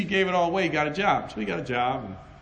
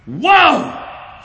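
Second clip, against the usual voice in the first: amazed whoa; 11 semitones higher, 11 dB louder than usual. Real, not acted. Preacher marvels at friend's faith.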